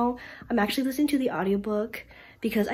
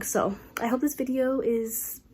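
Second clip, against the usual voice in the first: blocked nose, sick voice; nasally voice. Real, not acted. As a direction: speak through a stuffy nose. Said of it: "sorry for my nasally voice".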